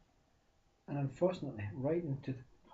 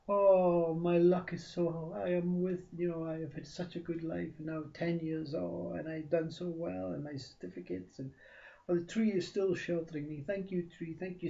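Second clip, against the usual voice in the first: higher excited voice; 5 semitones higher, 4 dB louder than usual. Acted. Man wakes, thanks tree.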